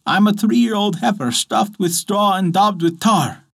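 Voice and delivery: a simple, sing-song ox answering the bear; straw ox voice. Acted. Ox answers the fox.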